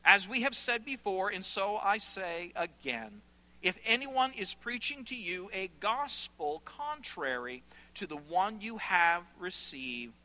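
deliberate, weighty restatement; emphatic scripture reading. Acted. Preacher reading Paul's repeated warning, emphatic and solemn. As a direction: repeat the warning with measured force.

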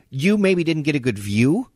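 high, worked-up retelling of a protest; retold insistence. Player insisting to the coach he caught it, high retold protest. Retold quarrel after the game.

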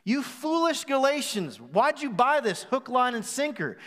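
a touch of sarcastic scolding; sarcastic Paul. Retold or imitated. Paul scolding the foolish Galatians, lightly sarcastic. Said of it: "he kinda writes a little sarcastically".

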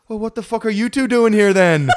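loud, high exasperated yell; mock angry shout. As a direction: shout it as an outraged challenge. Acting Geldof's outburst at hosts.

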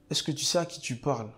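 a hint of a big commanding voice, lightly voiced; God's authoritative voice. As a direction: ask it like a stern ruler demanding respect, not angry. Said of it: "d'une grosse voix ... une voix autoritaire".

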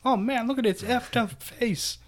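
high-pitched, full-out holler; loud impression of a viral-video yell; yelling at his mom. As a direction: imitate a guy hollering excitedly for his mother. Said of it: "he's just yelling at his mom".

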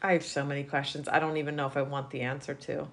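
fast, breathless whisper of disbelief. Real, not acted. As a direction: whisper it like you're spooked. Reacting to creepy goblin story.

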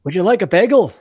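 put-on a light comic Jewish-accent offer. Host jokingly offers co-hosts a bagel in a light mock Jewish accent. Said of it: "I should do my Jewish accent".

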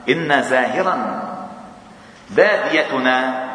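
slow, deliberate quote; measured, weighty hadith quote; slow recitation. Shown as a demonstration. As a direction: spell out each word slowly. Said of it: "slow quoting of hadith".

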